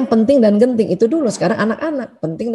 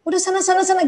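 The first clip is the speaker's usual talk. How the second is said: lightly voiced teen, waving mum off; a hint of an irritated teenager shooing mum away; annoyed teenager; 5 semitones higher than usual. Junior high kid telling mum to go away, mildly irritated. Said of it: "Kata anak-anak S M P".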